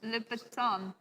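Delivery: lightly put-on French accent. Quiz host showing off the shoe brand, put-on French accent. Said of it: "the accent you're going with".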